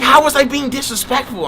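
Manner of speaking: high-pitched imitation of an offended girl; mimicked indignation. Quoting the girl's comeback when told off, mock indignant.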